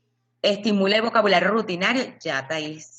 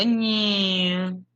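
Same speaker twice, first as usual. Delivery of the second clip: plane sound; 3 semitones higher than usual. Shown as a demonstration. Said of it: "va diciendo".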